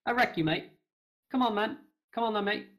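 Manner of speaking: loud, punchy mock British lad accent. Showing the others an accent, mock-aggressive British. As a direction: put on a belligerent British "mate" accent. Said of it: "What a perfect accent".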